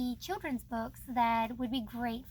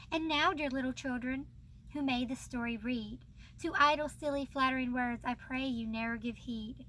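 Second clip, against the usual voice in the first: poem reading. Acted. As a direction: read the closing moral like a lesson for children. Reads the poem's moral aloud.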